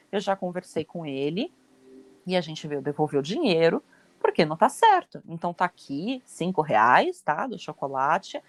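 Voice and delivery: calmo e educado, sem levantar a voz; em bom tom. Shown as a demonstration. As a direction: fale com a moça do caixa com serenidade. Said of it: "Você fala em bom tom". (mãe explica com calma à moça do caixa, em tom sereno)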